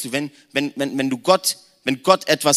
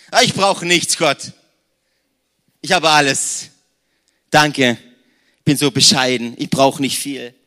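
laut und selbstzufrieden abwinken; übertrieben fromm tun, spöttisch; gespielte Bescheidenheit; 6 dB louder than usual. Pretend. (ein selbstgerechter Christ, der Gott laut abweist)

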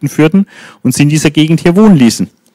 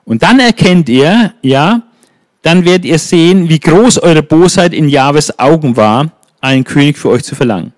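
stern prophecy; 3 semitones higher than usual. Acted. Prophet announcing thunder as a sign, stern proclamation. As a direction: proclaim their guilt.

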